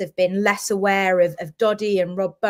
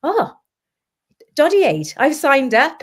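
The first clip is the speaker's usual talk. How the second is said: high, bright excited greeting, imitated; imitating an excited supporter who just signed up; excited fan; 7 semitones higher, 6 dB louder, slower than usual. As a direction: gush like a fan spotting the hat. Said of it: "they say".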